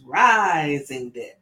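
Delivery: Rising drawn out slowly with weight; Rising said slow and deliberate, deck tacked on; emphasis on Rising. Shown as a demonstration. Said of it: "we're supposed to put the emphasis on rising".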